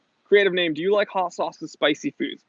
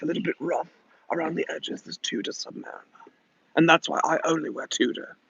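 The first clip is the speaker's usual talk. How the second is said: Beckham voice. Pretend. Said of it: "too deep to be David Beckham".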